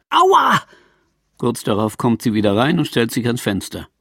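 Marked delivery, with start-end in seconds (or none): 0.1-0.6 high sudden ouch; yelp of pain. A narrator's reading. Woman kicks umbrella stand, yelps in pain. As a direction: cry out after kicking the stand.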